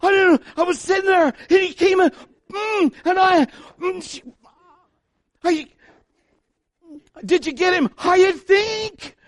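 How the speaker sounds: hammed-up frantic boy, very high and loud; Sam impression. Son explaining his shot to dad, hammed-up frantic impression. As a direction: stammer it out high and loud, in bursts. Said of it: "this is my impression of Sam".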